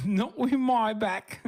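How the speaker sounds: high, loud, slow parody of his line; slow squeaky mimicry of his excuse; mocking echo. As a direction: drag out his words in a silly high voice to tease him. Mocks friend's line just said.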